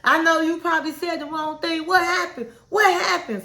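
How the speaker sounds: a hammed-up nag, voice up; clowning, acting a fool. Wife fussing at husband over the wrong answer, mock clowning. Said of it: "she just clowning and acting a fool".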